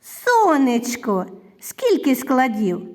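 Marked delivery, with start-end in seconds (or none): 0.0-1.2 Сонечко with a long, slow first vowel; slow, drawn-out Сонечко; affectionate diminutive. Shown as a demonstration. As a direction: linger on the Со in Сонечко, keeping the word connected. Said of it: "Назвіть його ласкаво".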